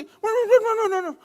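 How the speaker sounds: laughing high protest; real laughter at his own story. Real, not acted. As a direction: laugh through the noes. Laughing break.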